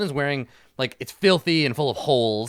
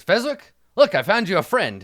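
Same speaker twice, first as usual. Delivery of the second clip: hearty call; 7 semitones higher, 8 dB louder than usual. Acted. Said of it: "he says".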